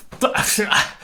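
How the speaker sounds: breathy, helpless little laugh; a panicked airy giggle; nervous laugh. Retold or imitated. Cook caught without an answer, laughing nervously. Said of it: "literally just like that".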